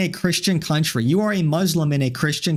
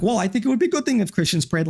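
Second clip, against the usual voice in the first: mocking imitation; 5 semitones higher, faster than usual. Mocking the opponent's argument.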